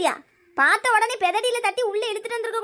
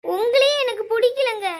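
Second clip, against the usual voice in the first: crying through the words, a little louder; breaking into tears as she refuses; tearful refusal; 4 dB louder than usual. Acted. Bride tearfully tells the groom she doesn't want him, crying.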